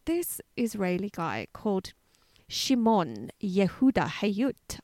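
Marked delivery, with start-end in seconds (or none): 2.5-4.8 "Shimon Yehuda Hayut" sounded out slowly, name by name; tentative pronunciation. Real, not acted. Host attempting an Israeli name, "Shimon Yehuda Hayut" tentatively sounded out. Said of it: "no idea if that's actually how you pronounce".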